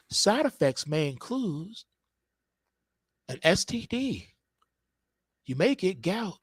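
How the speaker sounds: lightly voiced soothing commercial nana; nana reading side effects. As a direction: read grim warnings gently and matter-of-factly. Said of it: "your mama and your grandmama".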